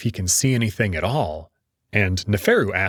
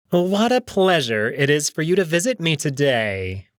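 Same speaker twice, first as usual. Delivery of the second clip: silky, smug and higher; smug jackal voice; 5 semitones higher than usual. Acted. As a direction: purr it out like a smug prince. Neferu, smug jackal prince.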